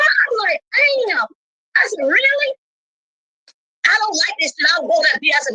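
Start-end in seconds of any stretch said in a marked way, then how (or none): 0.7-1.3 high-pitched retold disbelief; retold surprise. Woman retelling her reaction to the dispute, surprised. 2.1-2.5 high, incredulous questioning; retold disbelief. Woman retelling her reaction to the dispute, incredulous.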